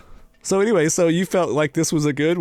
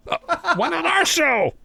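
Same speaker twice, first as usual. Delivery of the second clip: mock hurt; slower than usual. Real, not acted. Mock hurt question, laughing.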